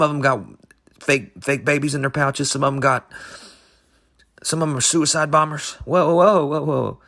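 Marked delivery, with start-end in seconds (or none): 5.9-7.0 startled whoa. Real, not acted. Reacting to suicide bomber kangaroos.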